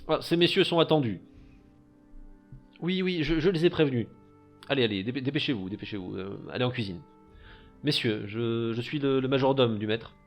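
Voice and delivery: fussy butler. Acted. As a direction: play a prim, busy majordomo. GM voices the butler.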